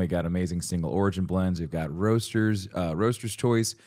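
ad read in a put-on Long Island accent. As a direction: sell coffee like a Long Island local. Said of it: "Long Island accent".

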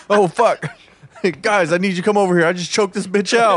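high, loud laughing call for help; laughing mock panic. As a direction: pretend panic through laughter. Acted mock murder scene, laughing.

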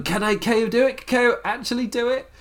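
high, excited commentator yell; imitating a screaming commentator. Ringside commentator hyping the crowd, high excited yell. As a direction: hype it up like a ringside announcer. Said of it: "the commentator's screaming".

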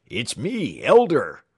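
high cry rising to a shout. A narrator's reading. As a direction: cry out to be recognized. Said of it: "cried the apparent tramp".

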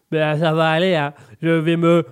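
real blocked-nose voice; congested, m's coming out as b's; stuffed-up cold. Real, not acted. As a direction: struggle on through a head cold. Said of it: "avec un rhume".

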